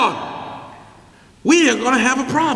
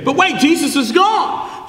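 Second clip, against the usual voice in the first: mock alarm; slower than usual. Preacher interrupts his own reading.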